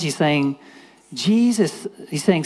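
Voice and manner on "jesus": high-pitched mock yell; imitated crying out. Blind Bart calling to Jesus, imitated yell. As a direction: call out for attention, pitched up. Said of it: "he starts screaming out".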